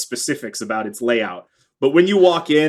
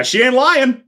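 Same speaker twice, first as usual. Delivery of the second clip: high, sweet small-town lady voice; lightly laughing hostess greeting strangers; small-town woman; 10 semitones higher than usual. Acted. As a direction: play a friendly townswoman, pitched up.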